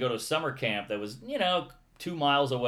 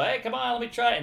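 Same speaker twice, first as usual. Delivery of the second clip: put-on higher, pushy teen bully; 9 semitones higher, faster than usual. Bully pressing the boy to hand over his bike, higher pushy voice. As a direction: lean on him for the bike.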